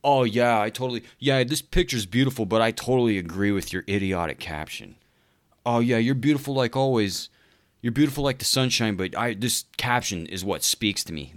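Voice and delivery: a hint of a gushing fawning guy; lightly voiced flattering commenter; mocking simp commenter. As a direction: gush and agree a bit too eagerly. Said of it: "they're like".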